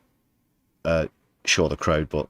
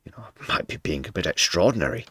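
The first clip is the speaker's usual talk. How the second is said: whisper; faster than usual. Real, not acted. Sarcastic aside to viewers.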